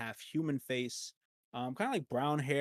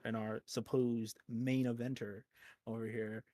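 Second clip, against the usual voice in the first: ordinary delivery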